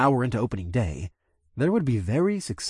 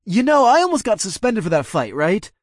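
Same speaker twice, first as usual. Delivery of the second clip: grumbling; 9 semitones higher, 6 dB louder than usual. A narrator's reading. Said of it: "the red-bearded asshole grumbled".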